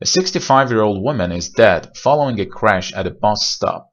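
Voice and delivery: slow, with bus stop held on the s; slow model sentence. Shown as a demonstration. Teacher reading a news line slowly as an example. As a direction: read the headline slowly and clearly. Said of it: "چند تا مثال بزنیم".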